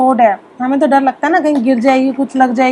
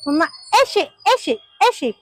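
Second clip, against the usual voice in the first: put-on higher playful demo voice for a toddler; showing her daughter; 4 semitones higher, 4 dB quieter than usual. Shown as a demonstration. Mother playing for her daughter in the park, higher coaxing voice. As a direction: coax the child to copy you. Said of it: "अपनी बेटी को दिखाने के लिए".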